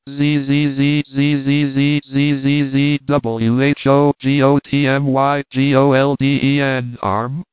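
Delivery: spelled-out buzzing ghost chant; ghostly buzzing wail. Acted. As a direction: drone each letter like a pursuing ghost. Ghost voice coming after him.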